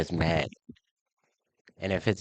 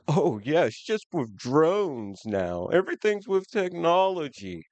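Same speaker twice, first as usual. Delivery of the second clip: mock leftist; 8 semitones higher, slower than usual. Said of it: "they're like".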